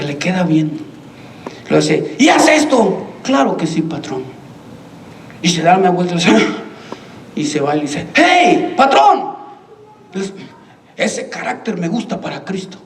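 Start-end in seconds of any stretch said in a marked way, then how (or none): 2.2-3.1 retold shouted order. Boss giving his worker an order, mock shout. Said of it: "le empieza a gritar a él". 3.2-4.2 calm imitated reply, dropping low and soft; serene. Worker answering his shouting boss, calm and obedient. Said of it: "Y él sereno". 8.1-9.4 high, raised imitated call. Worker calling after the boss who left, high call. 10.1-12.8 low and soft, unruffled; calm retold remark. Worker to his angry boss about character, low and calm.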